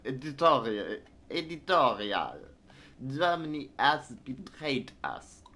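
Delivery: cartoonish, hammed-up Italian accent. Gamer voicing a betrayed Italian editorial, cartoonish Italian accent. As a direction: put on an exaggerated Italian accent. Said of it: "Now, now there's Italian accents even too".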